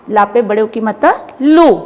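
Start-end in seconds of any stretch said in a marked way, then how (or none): 1.4-1.7 "लो" drawn out with force on the long oo; stressed long vowel. Shown as a demonstration. Teacher showing children the long-vowel sign, stressed. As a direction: lean hard and long on "लो". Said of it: "जोर दे के बोलना है".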